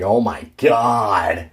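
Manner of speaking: put-on long, drawn-out teenage groan; bored teenager. Imitating a coworker moving boxes, bored teenager whine. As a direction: stretch it slowly like a sulky teen. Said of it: "like a teenager who didn't get their way or a teenager who's just bored".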